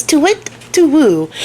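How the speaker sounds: slow, drawn-out high owl hoot, second take. Retold or imitated. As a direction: hoot it long and eerie like a big owl. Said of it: "She says".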